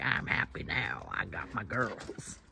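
drawn-out smug rooster voice; voicing the rooster. Owner voices her rooster back with the hens, slow and pleased. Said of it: "He's like".

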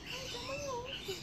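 very high, soft coo. Real, not acted. Petting the fussy dog, cooing very high and soft. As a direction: coo at a whiny pet.

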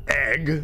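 "egg" with short e, as the rejected version; odd-sounding short-e "egg"; short-e pronunciation. Shown as a demonstration. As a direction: hold up "egg" as in "edge" as weird. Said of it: "Not egg. That's so, that's so weird".

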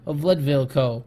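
theatrical reading of a letter; dramatic voice. Pretend. Executive writing to Miss Grant, dramatic voice. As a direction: read it out with measured drama. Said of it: "read this file in my dramatic voice".

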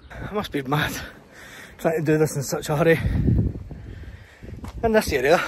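breathless after climbing stairs; panting from the steep climb; out of breath. Real, not acted. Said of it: "I'm out of breath".

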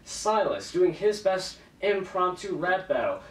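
hype announcer. Pretend. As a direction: build to a big ring call. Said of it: "hype announcer".

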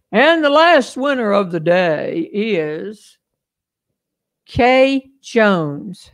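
slow, stretched winner announcement; drawn-out announcement. Real, not acted. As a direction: draw it out before naming the winner. Announcing the final prize winner.

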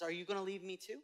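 soft, wounded plea to his friends; hurt, grieving question. Acted. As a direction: ask it quietly, like grieving sorrow. Jesus asks disciples, hurt.

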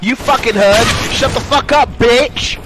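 gloating shout. Real, not acted. Gloating at opponent.

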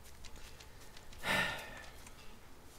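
heavy, breath-only sigh; exasperated sigh. Real, not acted. Player desperate to find a badger, long sigh. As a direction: blow out a long frustrated breath.

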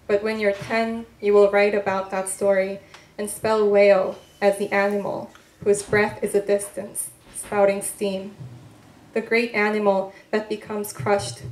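measured, unhurried poetry voice with weighted pauses; poem reading. Acted. Poet reading her work to an audience, measured and deliberate. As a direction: let each line land like a spoken poem.

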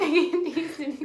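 giggling through the words; laughing. Real, not acted. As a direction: laugh while saying it. Laughing over the taste.

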